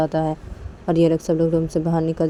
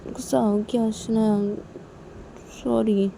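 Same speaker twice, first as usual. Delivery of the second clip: lightly voiced girl coaxing her friend, a little higher; pleading apology; 3 semitones higher than usual. Tisha coaxing hurt Shanaya after hitting her, lightly pleading.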